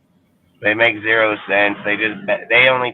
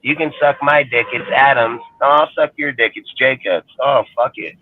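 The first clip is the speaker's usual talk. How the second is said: mocking fans; 5 semitones higher than usual. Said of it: "they're like".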